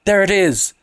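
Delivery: high shrill cry of alarm. A narrator's reading. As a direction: cry out at what she sees. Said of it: "she uttered a shrill cry".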